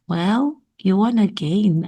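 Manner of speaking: brief pause after "Well". Shown as a demonstration. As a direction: break at the comma after "Well". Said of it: "It's a pause".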